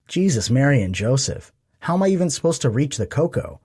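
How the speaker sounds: high, exasperated outburst; exasperated exclamation. Acted. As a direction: throw up your hands at it. Exasperated at marshmallow mountain.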